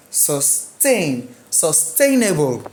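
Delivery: "Sustain", "Sustainable" with the TAIN drawn out; stress on second syllable. Shown as a demonstration. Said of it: "rules for syllabic stress".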